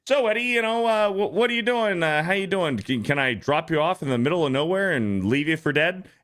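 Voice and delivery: high, falsely friendly host voice; sugary politeness hiding a threat; mock-polite Clark. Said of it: "And then he's like".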